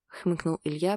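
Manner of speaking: ordinary delivery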